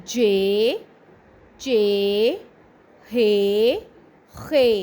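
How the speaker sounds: each syllable said alone, clear and spaced; repeat-after-me drill. Shown as a demonstration. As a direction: model each sound for the class to repeat. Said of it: "چلیے میرے ساتھ دہرائیے".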